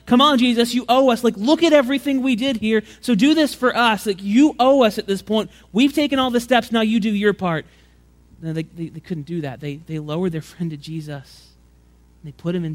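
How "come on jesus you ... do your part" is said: loud, higher, pushy demand; mock demanding yell. Friends on the roof demanding Jesus pay them back, mock shouting. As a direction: yell it down like you're owed.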